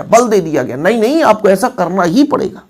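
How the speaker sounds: ordinary delivery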